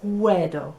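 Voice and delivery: "Puedo" as PWE-do, falling at the end; built-up pronunciation. Shown as a demonstration. Teacher repeating the word forwards, PWE-do "Puedo". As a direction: blend "Puedo" from p, where, dough. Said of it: "going forwards".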